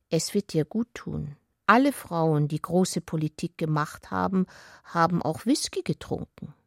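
gently coaxing her to take the drink, lightly voiced; friendly. Ulrich offering Bonadea whisky, mildly friendly and reassuring. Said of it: "Aber Ulrich sagte freundlich".

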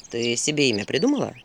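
lightly voiced owl, pitched low; teasing owl. Owl questions Vasilisa's name, mildly teasing. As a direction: needle her about the name.

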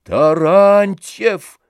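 loud, drawn-out threatening cry of the name; menacing shout. A narrator's reading. Oblomov shouts to silence Tarantyev, slow menacing cry. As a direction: bellow his name as a warning. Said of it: "грозно крикнул Обломов".

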